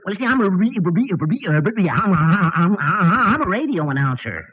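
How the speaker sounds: repeated stutter on re-. Acted. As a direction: stammer through every word. Stuttering witness.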